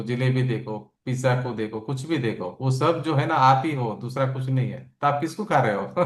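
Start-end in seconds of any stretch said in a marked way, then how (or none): 5.0-5.9 laughing question. Real, not acted. Joking about eating pizza.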